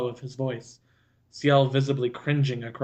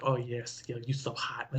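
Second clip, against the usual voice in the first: mock breathy moan; 2 semitones lower, 9 dB quieter than usual. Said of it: "You're like".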